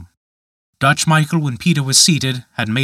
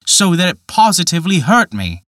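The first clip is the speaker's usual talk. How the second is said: put-on higher, pleading young voice; a young man pleading his case; Peter crying out; 7 semitones higher, 4 dB louder than usual. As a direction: cry out helplessly.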